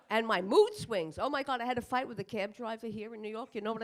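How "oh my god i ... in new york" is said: normal talking voice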